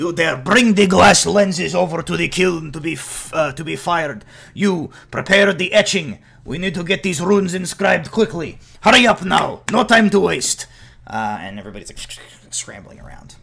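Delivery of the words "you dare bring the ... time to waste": very high, very loud shrieked yelling. Voicing a character on a catwalk directing artificers below: shouting orders. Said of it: "shouting down".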